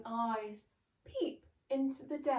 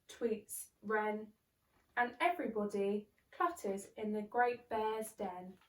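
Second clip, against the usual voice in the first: put-on lively read-aloud for children; bouncy story voice for little ones; storybook narration. A narrator's reading. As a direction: read it like a bedtime picture book. Narrating a picture book.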